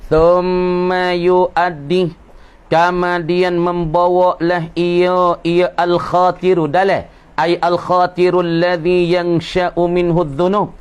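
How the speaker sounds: slow, drawn-out text reading; kitab recitation. Acted. Teacher reading a religious text to students, slow intoned recitation. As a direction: read the Arabic slowly, stretching the vowels.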